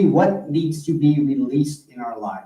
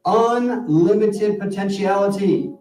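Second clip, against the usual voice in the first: spoken prayer. Real, not acted. Minister concludes the service for the congregation, measured prayer. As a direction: lead them into prayer, phrase by phrase.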